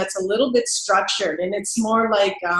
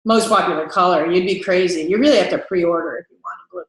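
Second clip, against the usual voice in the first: snooty sales rep; 3 semitones lower than usual. Shown as a demonstration. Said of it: "sometimes we get that".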